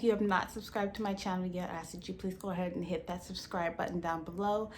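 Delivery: talking with retainers in; slightly lisped speech from retainers; wearing a retainer. Real, not acted. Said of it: "if I'm talking weird during this video".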